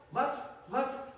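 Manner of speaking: high puzzled shout; calling back. Acted. Man on the far bank shouting back, high and puzzled. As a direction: yell back across, high and confused. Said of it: "on the other side said".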